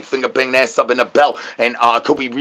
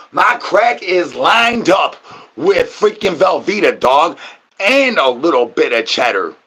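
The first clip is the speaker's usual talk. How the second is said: shouting; 3 semitones higher than usual. Pretend. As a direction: yell it out, drawn out. Yelling about the cheese.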